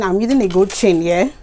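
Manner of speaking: tired voice. Real, not acted. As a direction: sound worn out and tired. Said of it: "Ignore my tired voice".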